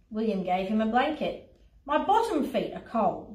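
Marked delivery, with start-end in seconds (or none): 1.9-3.3 lightly whimpering lion; a touch of whimper. Acted. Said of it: "whimpered the lion".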